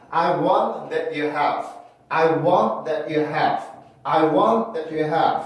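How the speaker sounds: "that you have" with T stopped before "you"; cut-off T. Shown as a demonstration. Teacher showing the second method, T cut off. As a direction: break between "that" and "you", no ch. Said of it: "그냥 끊어서 발음을 하는 방법".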